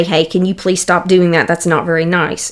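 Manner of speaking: put-on kindly asking a stranger's misbehaving child to stop, very nicely. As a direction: kindly ask the child to stop, no edge at all. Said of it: "And you say it very nicely".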